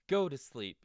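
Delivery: high, loud playful shout. Acted. Toad remembering the last list item, loud shout. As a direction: shout it out cheerfully. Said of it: "shouted Toad".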